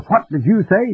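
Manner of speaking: high alarmed question; a hammed-up startled cry; agitated. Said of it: "began to get very agitated, excited".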